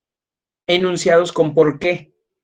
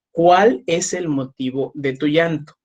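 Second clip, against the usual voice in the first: gentle question; slower than usual. Shown as a demonstration. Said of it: "Lo recomendable es".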